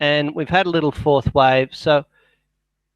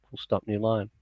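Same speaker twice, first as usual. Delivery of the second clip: softer aside dictating punctuation; 4 semitones lower, 9 dB quieter than usual. Real, not acted. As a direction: drop the voice for the punctuation commands.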